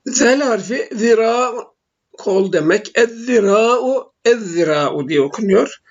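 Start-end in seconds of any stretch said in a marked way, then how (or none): 3.0-4.1 slow "Ez-zira'u" with a held double th as in "this"; doubled zel. Shown as a demonstration. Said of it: "şeddeli olarak okunuyor". 4.2-5.1 "ez-zira'u" with a held double th as in "this", lower; doubled zel. Shown as a demonstration. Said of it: "şeddeli olarak okunuyor".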